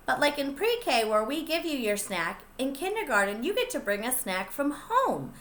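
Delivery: ordinary delivery, nothing marked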